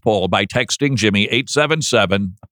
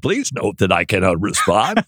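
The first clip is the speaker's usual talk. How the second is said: lower, lightly mocking DJ read; a hint of a radio host; imitating his cohost's announcer voice; 4 semitones lower than usual. Teasing his cohost by copying his voice, in a lightly mock DJ tone. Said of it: "that did not sound like Casey Kasem".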